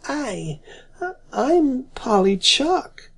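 a small, shy, halting reply; small timid voice. Acted. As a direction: answer timidly, nearly in tears. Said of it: "in a small, timid voice".

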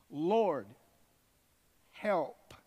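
a desperate woman calling out to Jesus; urgent plea. Acted. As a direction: cry out to the Lord. Urgent cry for help.

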